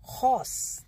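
हॉर्स with the r almost silent; soft r sound. Shown as a demonstration. Teacher demonstrating the soft r, lightly. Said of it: "देखो आर का pronunciation कैसे आ रहा है".

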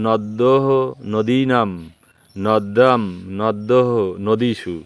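steady sing-song listing for students to repeat; Sanskrit declension recitation. Shown as a demonstration. Teacher drills মুনি forms for the class, sing-song recitation.

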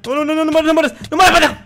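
high, loud pleading shout; panicked yell. Real, not acted. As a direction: beg yourself not to die. A punto de morir en el juego. (grito de pánico)

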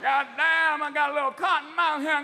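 mock stoned horse complaining. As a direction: grumble like a lost, dry-mouthed horse. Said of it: "Even the horse will be going".

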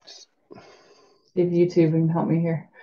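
whispered, slow aside. Real, not acted. Reader whispering an aside while searching for a clip. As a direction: breathe it out slowly under your breath.

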